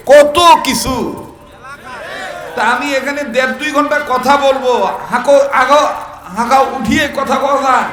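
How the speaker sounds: loud, rousing sermon voice; fiery preaching. Acted. Preacher rouses the village congregation, fiery and loud. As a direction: preach to the crowd, building.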